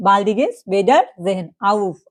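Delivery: slow, careful teacher model of the phrase; slow German demo. Shown as a demonstration. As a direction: say it slowly for beginners. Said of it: "এটা কি".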